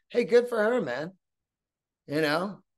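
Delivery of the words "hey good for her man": cheering fan. Retold or imitated. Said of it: "other people are like".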